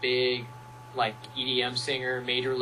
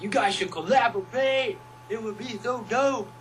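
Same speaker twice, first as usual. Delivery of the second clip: much higher, loud eager shout; fans cheering; 9 semitones higher, 6 dB louder than usual. Retold or imitated. Fans urging the two to collaborate, shouting. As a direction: hype them up like excited fans. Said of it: "our fans were like".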